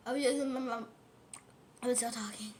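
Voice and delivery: unvoiced whisper; hushed aside with a full mouth. Real, not acted. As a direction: whisper it under your breath. Talking with juice in mouth.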